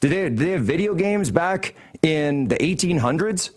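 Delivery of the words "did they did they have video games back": sarcastic really. Real, not acted. Sarcastic disbelief.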